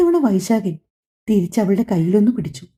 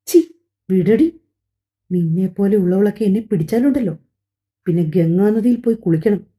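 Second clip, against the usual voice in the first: angry. Acted. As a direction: spit the words back in disgust. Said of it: "അവൻ ദേഷ്യപ്പെട്ടു". (ദേഷ്യത്തോടെ, അറപ്പോടെ)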